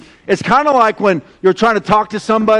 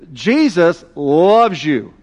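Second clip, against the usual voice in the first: slow, tender and sincere; tender plea; 3 semitones lower, much slower than usual. Acted. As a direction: say it gently and slowly, like a heartfelt confession. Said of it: "So look, Francisco".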